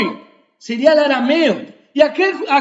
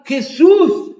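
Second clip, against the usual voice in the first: loud pleading cry, pitched up; blind man crying out; 2 semitones higher, 4 dB louder than usual. Retold or imitated. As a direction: beg at full voice for mercy. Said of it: "Él comenzó a gritar". (el ciego clamando a Jesús, súplica fuerte)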